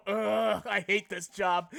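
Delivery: jaded grumble. Retold or imitated. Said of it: "turn around and go".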